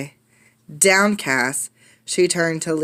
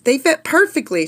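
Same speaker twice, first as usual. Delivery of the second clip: joyful cry; 8 semitones higher than usual. Acted. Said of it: "she cried".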